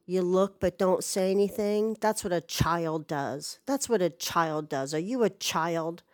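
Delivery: imitating a scolding stranger, held back; retold angry tirade at reduced volume; toned-down angry yell. Man scolding a silent passerby, mock angry yell kept down. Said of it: "He yells at me and says".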